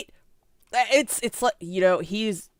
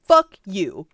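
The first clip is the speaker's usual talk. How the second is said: prosecutor's flat fuck you; 6 dB louder than usual. Retold or imitated. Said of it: "the prosecutor is like".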